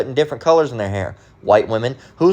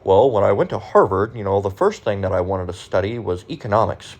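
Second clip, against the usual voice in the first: understated impression of a well-schooled man lecturing on economics; mock educated speaker; 4 semitones lower than usual. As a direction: mimic a refined, lecturing college man, barely shifting the voice. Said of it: "He could talk like this".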